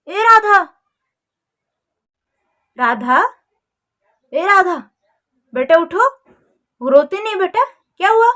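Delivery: father calling his sulking daughter to wake up. Acted. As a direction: call her to get up.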